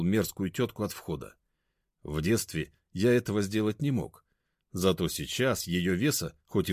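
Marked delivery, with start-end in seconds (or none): none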